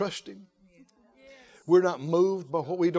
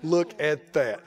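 laughing low with delight; a chuckling, proud look at that; God laughing; 6 semitones lower, slower than usual. Retold or imitated.

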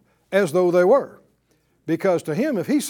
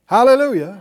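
hallelujah shout; 2 semitones higher, 8 dB louder than usual. Real, not acted. Preacher exclaims to congregation.

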